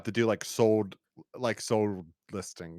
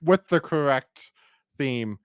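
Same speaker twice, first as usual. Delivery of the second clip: higher, louder, hammed-up longing; mock yearning, pitched up and loud; mock pleading wish; 7 semitones higher, 6 dB louder than usual. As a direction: play a fan begging for the correct theme. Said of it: "So if you really are like".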